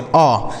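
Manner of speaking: अ as an open "aw", for the letter o; open vowel demo. Shown as a demonstration. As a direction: say अ like the vowel of "pot". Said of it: "ओ को हम अ पढ़ते हैं".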